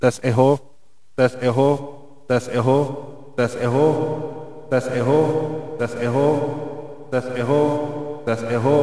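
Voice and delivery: heavy echo effect, voice bouncing back. Shown as a demonstration. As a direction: test lines through a big reverb. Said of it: "Ini coba saya naikin echo-nya".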